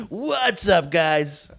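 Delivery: high mock YouTuber greeting; Preston. Joining in on the kid's channel intro, mock high YouTuber voice. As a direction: pitch it way up like a kid streamer. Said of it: "you sound like Preston".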